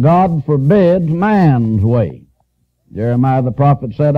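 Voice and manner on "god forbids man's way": God forbids man's way, each word spaced and deliberate; slow, weighty emphasis. Shown as a demonstration. Preacher stating his second point, slow and firm. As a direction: stress on man's, drawn out slowly.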